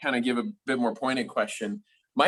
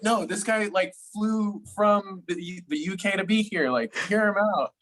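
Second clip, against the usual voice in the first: lightly voiced dad, higher, eager; excited dad; 5 semitones higher than usual. Dad calling his kids to listen, excited retold dad. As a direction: play a dad vouching for his guest. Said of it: "and he was like".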